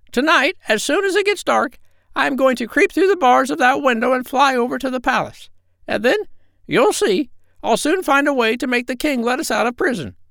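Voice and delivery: very high squawky parrot; a proud, cheeky parrot. Acted. The parrot plans.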